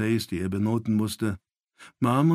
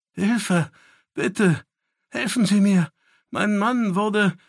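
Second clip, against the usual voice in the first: much higher, louder, panicked cries; desperate scream for help; 10 semitones higher, 6 dB louder, slower than usual. Acted. Desperate cry for help in flashback. (verzweifelter Hilfeschrei)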